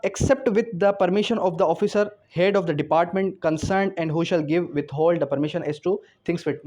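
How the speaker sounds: slow, measured reading of the law text; slow statute dictation. Shown as a demonstration. Teacher dictating the article to law students, slow and measured. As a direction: read each legal phrase slowly for students to note down.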